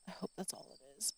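softly to herself; barely above a breath, hoping; hushed hopeful repeat. Real, not acted. Repeats the hope, much softer.

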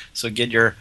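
lightly put-on bad German accent; a half-hearted mock German accent; a hint of a hammed-up German accent; terrible German accent. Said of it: "that was a terrible German accent".

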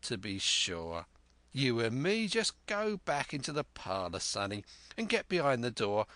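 half fawning, half sneering sailor; fawning, sneering pirate. Acted. Black Dog voiced in story.

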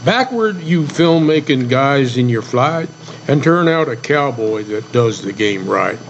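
measured poem reading; cowboy poem recitation. Acted.

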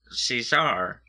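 Caesar said SEE-zar, full AR ending; pronunciation of Caesar. Shown as a demonstration. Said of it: "I thought that was pronounced Caesar".

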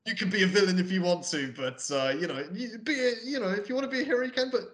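a hint of rambling Texas accent; bad Texas accent. Podcaster parodying Costner's advice on being a villain, mock Texas accent. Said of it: "his bad fucking, like, Texas accent".

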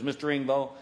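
a lightly voiced military officer; measured respectful salute voice; formal colonel. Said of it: "The colonel ... says".

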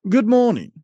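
high squeaky rat voice; rat impression. Shown as a demonstration. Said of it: "which was a terrible impression".

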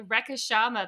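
Rekha Sharma with Australian non-rhotic vowels; Australian pronunciation. Shown as a demonstration. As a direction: say Rekha Sharma without R's, Australian style. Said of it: "that's how in Australian I would pronounce your name".

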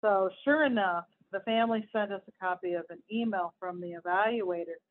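emphatic read-aloud of an article; lightly heightened news-reading voice. Acted. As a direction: read it out to listeners, punching key words.

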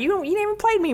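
high mock trash talk; mock taunt. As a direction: needle him in a high voice. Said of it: "because he was like".

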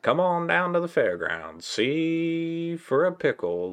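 high, slow, loud fairground barker; chirpy trade show pitch. Pretend. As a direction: call the crowd to the fairgrounds.

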